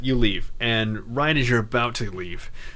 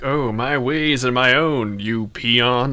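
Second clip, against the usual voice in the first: haughty dismissal; 5 dB louder, slower than usual. Retold or imitated. Kreia's haughty reply retold.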